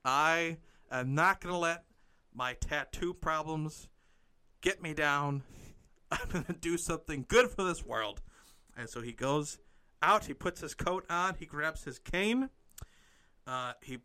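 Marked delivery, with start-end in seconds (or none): 0.0-8.2 determined vow. Acted. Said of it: "he says".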